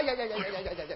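low, soft run of stage sobs; subdued theatrical crying; stage wailing. Acted. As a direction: keep wailing quietly in quick syllables. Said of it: "跑到我个店里来哭".

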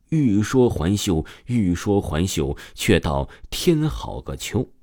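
slow, measured classical verse; poem recitation. A narrator's reading. Narrator quoting an old poem to the listener, slow recital. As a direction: let each line settle, reflective.

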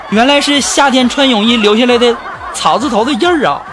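chuckling teasing repeat; laughing through it. Acted. Teasing repeat of her words.

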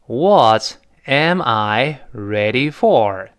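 slow, word-by-word "What am I ready for"; measured textbook question, falling at the end; formal full sentence. Shown as a demonstration. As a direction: lay out "What am I ready for" deliberately. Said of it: "用完整的句子正式书面语".

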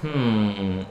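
a short pondering hum before answering; thinking hmm. Real, not acted. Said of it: "good question".

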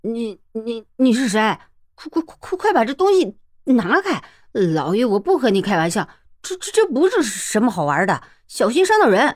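frightened stutter, words tumbling out; terrified bully with a sword at his neck; stammering in fright. Acted. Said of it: "话都说不利落了". (吓得结结巴巴)

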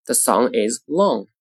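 slow "The song is long", "song" and "long" drawn out; lengthened sentence stress. Shown as a demonstration. Teacher demonstrating sentence stress, slowly, "song" and "long" lengthened. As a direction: hold "song" and "long", keep "The" short. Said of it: "句子重音在哪里".

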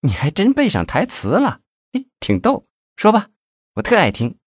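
put-on very high girlish tease; pleased, coquettish. A narrator's reading. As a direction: delight in a lover's flattery. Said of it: "觉得李先法这话很受用".

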